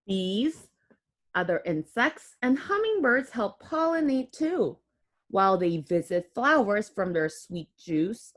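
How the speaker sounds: put-on clear, gentle read-aloud for kids; reading to children. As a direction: read the book aloud to little ones. Reads picture book to children.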